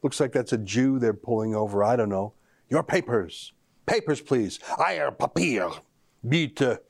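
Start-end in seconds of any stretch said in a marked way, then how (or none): 2.7-6.8 mock German accent. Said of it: "Forgive my accent".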